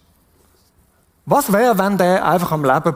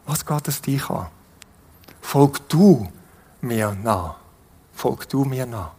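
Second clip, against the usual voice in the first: tender; 8 semitones lower, 4 dB quieter than usual. Acted. Jesus speaks lovingly to us.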